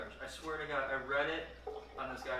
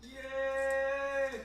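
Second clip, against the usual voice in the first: cheer; 10 semitones higher, 7 dB louder than usual. Real, not acted. Cheering the potato reveal.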